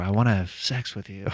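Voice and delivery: lightly put-on breathy sexy voice; mock breathy seduction. Shown as a demonstration. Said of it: "start getting a little bit more breathy".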